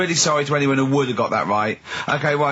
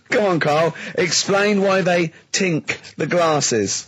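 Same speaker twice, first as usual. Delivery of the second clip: slow, drawn-out goading; teasing; slower than usual. Real, not acted. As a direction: draw it out to wind him up. Teasing Carl to explain.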